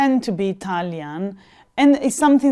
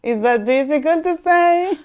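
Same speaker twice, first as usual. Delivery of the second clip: mock indignation; 3 semitones higher than usual. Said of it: "I'm like".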